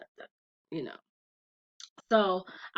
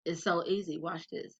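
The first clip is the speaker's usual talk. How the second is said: softer, leaning-in teacher voice; hushed demo; 6 dB quieter than usual. Retold or imitated. Mom leaning in to teach saying no, soft and hushed. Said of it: "And she says".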